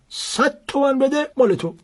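put-on a cunning old man closing a sale; old seller's voice. A narrator's reading.

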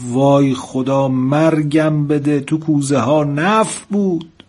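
slow, drawn-out gasp of dismay; shocked dismay. Acted. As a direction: she realises her blunder, stretch each word out. Girl shocked at her mistake.

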